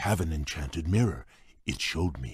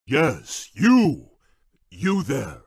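high, loud hail; calling out; 9 semitones higher, 3 dB louder, much slower than usual. Acted. Beast hailing a passing guest, loud call. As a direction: grab their attention.

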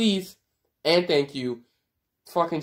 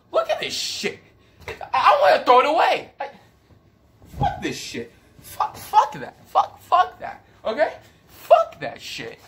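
laughing fit; 11 semitones higher than usual. Real, not acted. Losing it over the Falcons.

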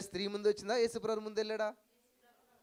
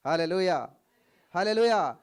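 shouted hallelujah; 13 dB louder, slower than usual. Real, not acted. Preacher rousing the congregation with a loud hallelujah shout. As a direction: belt it to the crowd.

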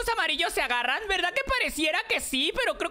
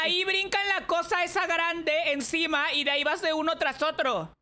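yelled directions; 2 semitones lower than usual. Real, not acted. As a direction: call out the route at a raised voice. Yelling directions to friend in game. (indicaciones a gritos)

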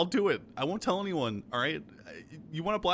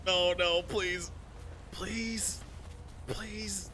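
desperate begging; much slower than usual. Acted. Begging not to be hurt.

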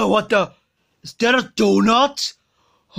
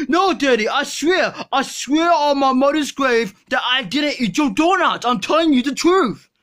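put-on protesting kid voice; 3 semitones higher than usual.

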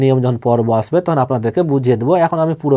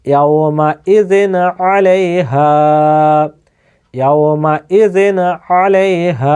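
Quran recitation; slower than usual. Shown as a demonstration. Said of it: "বিনা গুণনায় জাহির করে".

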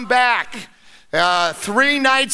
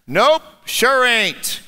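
slow, unbothered drawl; calm; 2 semitones higher, much slower than usual. Acted. Old man unbothered by Satan, calm and slow. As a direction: shrug it off slowly like an old man. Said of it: "said the man".

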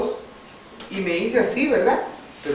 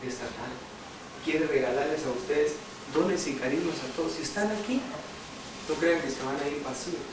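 soft sincere preaching; 5 semitones lower, 8 dB quieter than usual. Acted. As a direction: draw them in gently, almost hushed. Exhortación suave y pausada. (exhortación suave y pausada)

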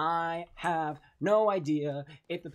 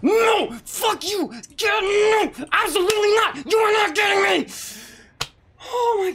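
high triumphant yell; defiant yelling; 10 dB louder than usual. Real, not acted. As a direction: scream it in defiance.

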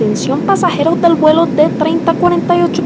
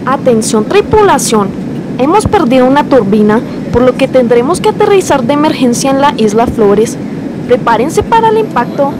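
emergency announcement. Acted.

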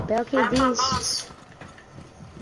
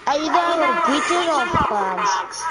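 raised, slow shouted question; shouting; 5 semitones higher than usual. Real, not acted. Shouting question over game.

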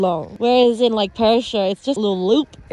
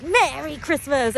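drawn-out, slightly higher mock-dramatic greeting; dramatic chairlift greeter; 4 semitones higher than usual. Guy in the chairlift hut greeting riders, imitated dramatically. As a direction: imitate a greeter calling out, stretched and theatrical. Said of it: "opened the window very dramatically and he's like".

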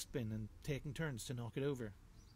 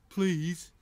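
louder, higher drawn please; big badger begging; 5 semitones higher, 10 dB louder than usual. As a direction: plead to get into the story. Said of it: "added Rolf the Badger".

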